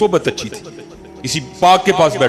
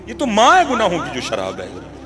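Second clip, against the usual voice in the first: gentle admonition. Acted. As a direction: warn him tenderly about wine. Slave gently admonishes master.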